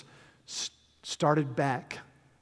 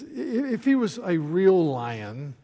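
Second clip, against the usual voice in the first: arrogant horse; 6 dB louder than usual. Acted. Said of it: "the arrogant horse named Bree says".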